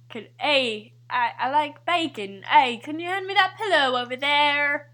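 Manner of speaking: lightly attempted Canadian accent. Player giving bacon clues, light Canadian accent. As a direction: feel your way into a Canadian accent. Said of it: "Oh, Canadian".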